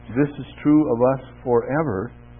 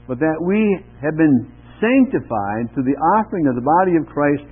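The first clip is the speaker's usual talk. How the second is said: measured, emphatic scripture reading; 4 dB louder than usual. Acted. Pastor reading Hebrews aloud to the congregation, measured and emphatic. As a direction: read the verses out with weight.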